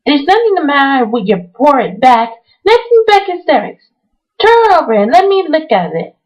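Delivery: high, fierce scolding. Acted. Mary fiercely scolding frightened Colin. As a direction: bite into each word fiercely.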